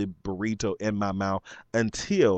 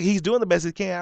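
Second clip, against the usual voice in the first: higher, snooty retort; mocking customer; 7 semitones higher, faster than usual. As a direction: mimic her smug defense. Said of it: "She's like".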